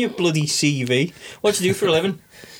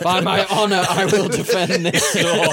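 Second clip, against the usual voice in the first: stagey fake archaic declaiming; 3 semitones higher than usual. Mock knight guarding shop door.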